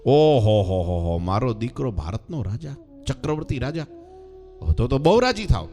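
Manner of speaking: ecstatic mother. Acted. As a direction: savour the dream of her son as emperor. Mother voiced, ecstatic at bigger offer.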